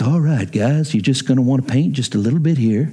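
lightly impersonated calm TV painter; Bob Ross. Retold or imitated. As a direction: gently coax them to paint, mildly imitated. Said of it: "That's my best Bob Ross impersonation".

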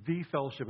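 "the" said as a full, stressed "thee". Shown as a demonstration. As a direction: lean on "the" as the definite article, pronounced "thee". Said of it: "there's a definite article".

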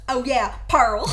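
loud imitated country twang; country accent. Co-host re-enacting the British friend's switch, country accent. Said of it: "she switched it so fast".

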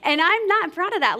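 admitting she has issues, laughing; laughing admission. Real, not acted. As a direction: own it with a laugh. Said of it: "Wow, Danielle, you got issues".

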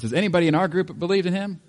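high, loud, incredulous mock Pharisee voice; scoffing priest, laughing at the very idea. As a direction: ham up the outraged religious leaders, half laughing. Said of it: "In other words".

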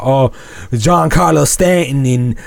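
hammed-up New York fan, pitch climbing; mock New York accent. Mocking Yankees fans with a New York accent. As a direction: sneer like a cocky Yankees fan. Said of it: "Is that your New York accent?".

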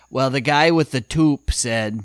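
a lightly voiced bored old New Yorker; apathetic old New Yorker. Court reporter answers the judge about the toupee, bored New Yorker. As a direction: toss it off with no energy, old New York style. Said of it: "so old and New Yorkie apathetic".

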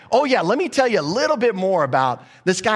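eager John. Retold or imitated. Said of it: "Now John is just like".

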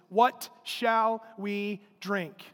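drawn-out complaint to Moses; slow mock grumbling. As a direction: grumble it very slowly, word by word. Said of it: "They grumbled against Moses".

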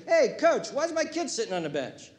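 high, loud indignant parent calling to coach; mock a parent demanding playing time; hammed-up complaining sports dad; pushy parent.

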